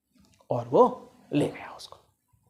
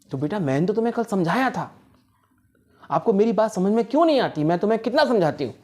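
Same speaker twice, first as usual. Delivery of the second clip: exasperated scolding; 5 semitones higher, faster than usual. Acted. Mother scolds children after loss.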